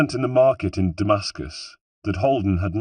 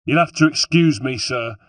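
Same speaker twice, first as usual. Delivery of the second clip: raised, high-pitched yell easing on the last word; loud, urgent call; yelled apology; 5 semitones higher, 5 dB louder than usual. A narrator's reading. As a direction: yell it over the fighting.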